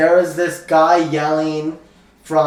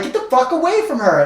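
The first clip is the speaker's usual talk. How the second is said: retold shout; 9 semitones higher than usual. Confronting street kid.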